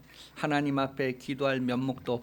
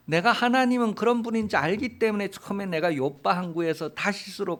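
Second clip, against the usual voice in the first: raised, heated protest to God; Jonah's angry complaint. Retold or imitated. Jonah protesting to God over Nineveh's pardon, heated. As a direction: argue back at God in a huff. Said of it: "그러면서".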